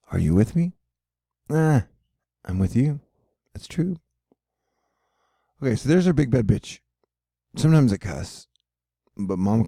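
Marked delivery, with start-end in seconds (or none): 3.5-4.0 whisper. Acted. Whispered aside to chat.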